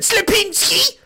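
high, drawn-out call of the name; mocking call-out. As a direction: sing out the name teasingly. Calling out a viewer's name.

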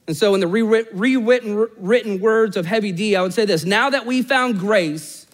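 high-pitched, punchy pulpit delivery; impassioned preaching. Real, not acted. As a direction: proclaim it with preacher's energy. Preacher delivers his closing line.

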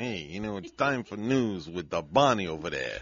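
put-on Italian-American wise-guy accent; host the show in an Italian-American accent. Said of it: "with this accent".

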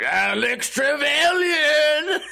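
high, drawn-out laughing yell of the name; stretched, cracking shout into the mic; drunken bellow. Retold or imitated. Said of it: "just bellowing".

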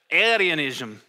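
Arianism in a half-hearted Irish accent. Shown as a demonstration. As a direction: try Arianism with a light Irish lilt, failing playfully. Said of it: "Again, Irish".

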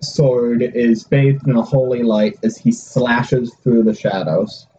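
slow, dramatic scene narration; game master narration. Acted. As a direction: paint the strike for the table. GM describes the hit.

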